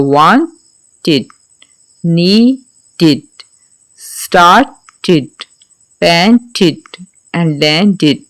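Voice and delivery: wanted, needed, started, painted and landed with a separate id syllable; id ending. Shown as a demonstration. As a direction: sound the extra id syllable clearly. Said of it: "जहाँ पे ED लगेगा".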